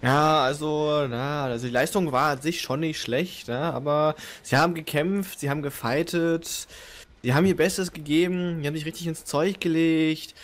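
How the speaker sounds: mock pundit interview. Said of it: "Halbzeitanalyse mit Vortex".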